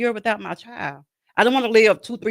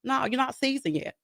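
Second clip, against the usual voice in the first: higher voice, as God answering her; a light hint of God's voice, higher; voicing God; 4 semitones higher than usual. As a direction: speak as God telling her she's not ready yet, pitched up. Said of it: "So God was like".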